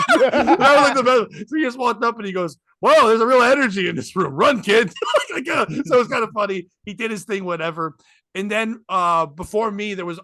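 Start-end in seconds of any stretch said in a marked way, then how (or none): 2.8-4.9 loud, slightly raised call-out; retold stage shout; mock alarm. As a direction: call out a joking warning to a kid. Mock warning called out on stage.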